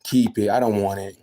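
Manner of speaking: brushing it off, a touch of sass; mock mama turning the offer down; imitating mama refusing help with attitude; dismissive mama. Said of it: "She's like".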